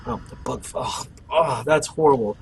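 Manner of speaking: sputtering after a bug in the mouth; just swallowed a bug. Real, not acted. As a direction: react to a bug flying into your mouth. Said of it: "a bug just flew in my mouth".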